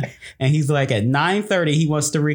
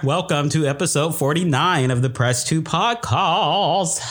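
slower restart. Real, not acted. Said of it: "I started out a little too fast there".

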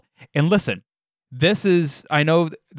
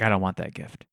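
flat refusal; 5 semitones lower, 6 dB quieter than usual. Retold or imitated. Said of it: "And I was like".

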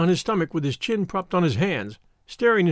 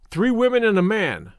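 grave country shepherd, pitched up; 4 semitones higher than usual. A narrator's reading. Shepherd answering who took harm there, gravely. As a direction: deliver it as a mildly solemn warning. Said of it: "said the shepherd, gravely".

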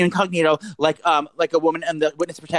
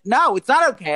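higher, emphatic refusal; retold angry outburst; 8 semitones higher, 3 dB louder than usual. Irate customer answering the security lady, retold outburst. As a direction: re-enact a heated no. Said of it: "cursing, like, like a maniac".

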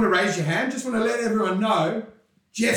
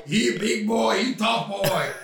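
mock Russian; slower than usual. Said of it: "done mocking".

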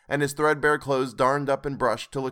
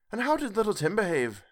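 Mrs Cratchit voiced; 8 semitones higher than usual. A narrator's reading. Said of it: "asked Missus Cratchit".

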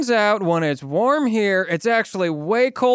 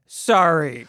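forced apology; 4 semitones lower than usual. Acted.

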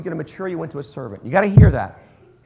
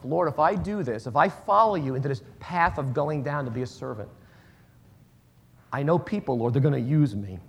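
fearful prayer; 3 semitones lower than usual. Retold or imitated. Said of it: "what I say to myself".

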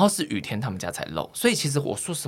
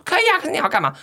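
mock puzzled neighbor; 3 dB louder, much faster than usual.

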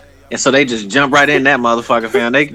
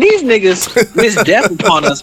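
furious rant; 7 semitones higher than usual. Real, not acted. Ranting at Joe Biden.

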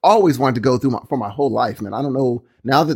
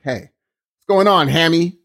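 slow, louder Aussie greeting; Australian accent; 2 semitones higher, 6 dB louder, slower than usual. Acted. Imagined Australian friend walking up, Australian accent. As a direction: hail a mate in broad Australian. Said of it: "walk up and be like".

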